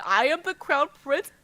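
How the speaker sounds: excited quote. Retold or imitated. Fan quoting the line, excited.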